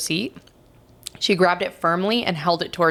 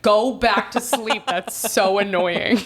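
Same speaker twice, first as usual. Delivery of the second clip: slow, higher mock complaint; imitating annoyed husband; 4 semitones higher, slower than usual. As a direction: mimic a fed-up husband, drawn out. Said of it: "my husband would be like".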